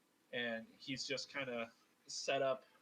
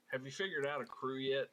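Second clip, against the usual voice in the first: put-on Southern accent; 4 dB louder than usual. Abel asking Alabaster about a crew, Southern accent. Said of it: "so I had to slip back into it".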